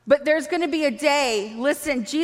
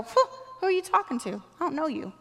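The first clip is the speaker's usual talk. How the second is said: dismissive brush-off; 3 semitones higher, 5 dB quieter, faster than usual. Acted. Acting dismissal of the enemy.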